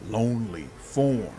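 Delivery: a many-bodied demon whispering its bargain; hissing swarm demon. Acted. Swarm demon coaxing the hero to free her.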